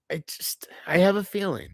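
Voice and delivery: drops into a breathy whisper mid-thought. Real, not acted. Confessing to viewers, sinking into a whisper. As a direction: let the words fall to a whisper.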